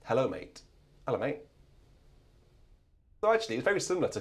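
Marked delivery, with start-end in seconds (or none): 0.1-0.6 English mate greeting. Retold or imitated. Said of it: "a certain demographic who do say". 1.1-1.4 English mate greeting. Retold or imitated. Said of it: "a certain demographic who do say".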